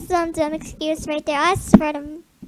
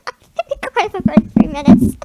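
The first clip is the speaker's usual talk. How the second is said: laughing; 4 semitones higher, 10 dB louder than usual. Real, not acted. Laughing repeat.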